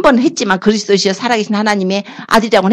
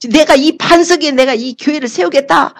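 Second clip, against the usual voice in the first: overjoyed; 6 semitones higher than usual. Acted. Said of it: "너무 기쁘셔가지고".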